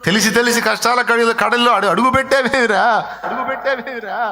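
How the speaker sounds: rising, mounting preacher's rebuke; preaching build-up. Acted. Preacher voicing a scolding relative, building.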